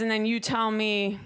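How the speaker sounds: normal talking voice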